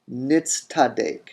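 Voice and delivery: Nitztadek said clearly, nitz-tadek; repeated form. Shown as a demonstration. Teacher repeating the real form, Nitztadek. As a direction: say Nitztadek, tz then t. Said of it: "that tav becomes tet".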